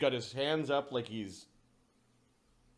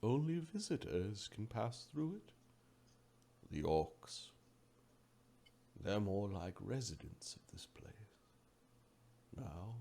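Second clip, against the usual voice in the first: hushed Oracle; 2 semitones lower, 8 dB quieter, slower than usual. Acted. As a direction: explain quietly, dropping almost to a whisper. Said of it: "says the Oracle".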